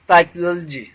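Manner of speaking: "साइकोलॉजी" said sai-kul-jee with reduced vowels; correct pronunciation demo. Shown as a demonstration. Teacher modelling the word for learners, "साइकोलॉजी" as sai-kuh-l-jee. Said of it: "साइकोलॉजी नहीं".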